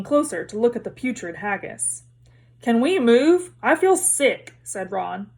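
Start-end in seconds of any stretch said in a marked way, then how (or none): 2.6-4.5 put-on queasy boy, raised and pressing; queasy Ron. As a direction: plead to leave, feeling sick. Ron feels sick at feast.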